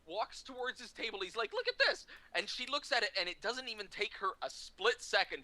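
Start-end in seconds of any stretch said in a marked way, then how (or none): 1.5-2.1 very high retold squeal; gleeful high-pitched urging; mock excited urging. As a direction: show it off in exaggerated excitement. Actor shows colleague the picture.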